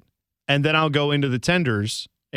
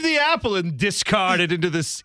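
hammed-up British accent, higher pitch; Napoleon; 7 semitones higher than usual. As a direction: play a grandly decadent royal with a put-on British accent. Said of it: "is Napoleon British now".

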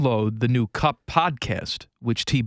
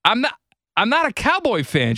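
put-on indignant kid; 9 semitones higher than usual. Eight-year-old refusing aunt's gift, higher indignant protest. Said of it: "I said".

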